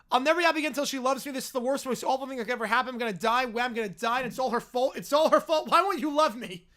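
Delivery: a lightly voiced bear whining, fast; a hint of a pouting bear; whiny lovesick bear. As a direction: whine it out like a spoiled cub who can't get his way. Reads whiny bear's lament.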